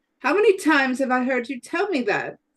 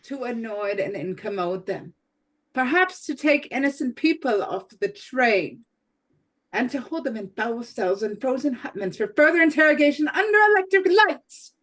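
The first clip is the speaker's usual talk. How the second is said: indignant rising protest; 4 semitones higher than usual. Acted. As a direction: voice climbing to indignant outrage. Bianchi protesting to Perot.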